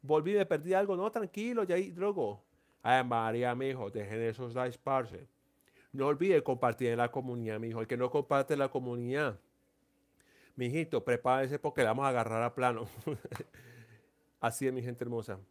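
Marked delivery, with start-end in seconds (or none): 0.0-2.4 Colombian way of talking. Retold or imitated. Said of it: "Si hablamos los colombianos". 2.8-14.4 Colombian paisa talk. Retold or imitated. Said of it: "Si hablamos los colombianos".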